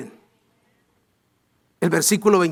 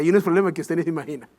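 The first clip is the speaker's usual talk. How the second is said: usual speaking voice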